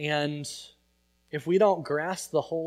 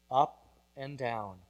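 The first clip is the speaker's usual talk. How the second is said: slow and softer, letting each word sink in; slow hushed refrain; 3 semitones lower, 6 dB quieter than usual. Acted. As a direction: draw the refrain out, quiet and reflective. Refrain repeated, slowed, hushed.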